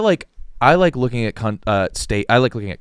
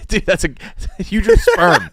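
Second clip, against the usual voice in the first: laughing; 8 semitones higher, 5 dB louder, slower than usual. Real, not acted. Laughing at a silly drawing.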